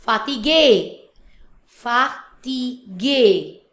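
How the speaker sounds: FATIGUÉ slowly as "fa - tee - GAY"; French pronunciation. Shown as a demonstration. Teacher showing the French word, slow French pronunciation. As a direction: stretch fatigué, loud final é. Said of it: "So in French is, we pronounce".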